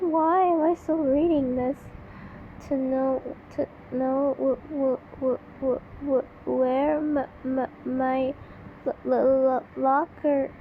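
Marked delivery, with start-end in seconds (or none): 2.7-10.5 repeated broken first sounds; mock stutter. Reading the girl's line with a hammed-up stutter. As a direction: stammer each word out. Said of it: "is, I stutter".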